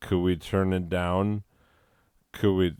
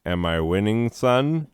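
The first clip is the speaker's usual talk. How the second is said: Southern twang on son, pitched up; deep south accent; 3 semitones higher than usual. Shown as a demonstration. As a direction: ask it like a Southern old-timer. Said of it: "I tried to do it".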